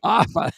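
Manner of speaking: Offa read slowly as written, O-ffa, dropping the f of off; amused read of Offa, stressing the ffa; spelling-pronunciation Offa, two syllables, first one stressed. Shown as a demonstration. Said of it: "how they spell offa".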